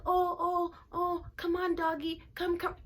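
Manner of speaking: high mock-sweet girly voice calling the dog; hammed-up prissy girl coaxing her doggy. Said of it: "She's like".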